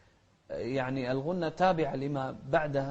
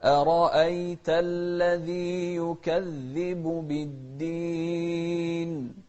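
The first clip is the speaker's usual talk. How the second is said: slow, sung recitation; slow sung Quran recitation; melodic Quran recitation; 3 dB louder, much slower than usual. Shown as a demonstration. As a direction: chant it slowly and melodically.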